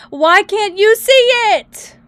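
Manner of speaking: high, loud, rising complaint; frustrated yell. Real, not acted. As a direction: shout it in exasperation. Game not showing for viewers.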